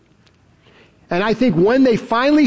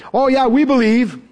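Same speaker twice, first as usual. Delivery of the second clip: mock eager agreement; 4 semitones higher than usual. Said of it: "all of a sudden changing their tune".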